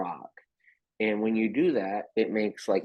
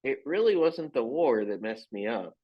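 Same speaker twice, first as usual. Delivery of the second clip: Bert voice; 5 semitones higher than usual. Retold or imitated. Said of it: "and he's like".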